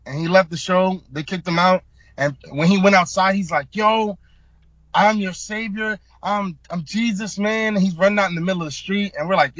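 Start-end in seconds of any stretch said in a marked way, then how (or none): 3.8-7.8 higher, slower, grandiose; imitating a man tripping on drugs; mock raving. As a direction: proclaim it like a deluded savior. Guy raving outside the show.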